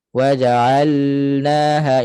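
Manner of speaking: WAJA'ALNAHA chanted slowly with a dragged-out L; lam held too long. Shown as a demonstration. Teacher shows the fault, lam held too long. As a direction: overstretch the L in waja'alnaha. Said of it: "itu lama sangat".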